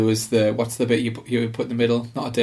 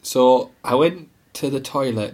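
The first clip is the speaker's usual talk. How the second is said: monotone. Real, not acted. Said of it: "talking, like, monotone".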